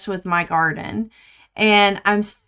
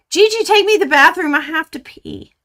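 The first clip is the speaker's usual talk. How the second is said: granddaughter's plea; 8 semitones higher, 5 dB louder than usual. Retold or imitated. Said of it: "and she says".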